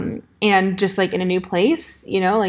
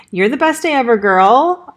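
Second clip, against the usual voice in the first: pep talk; 3 semitones higher, 6 dB louder than usual. Retold or imitated. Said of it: "But then I was like".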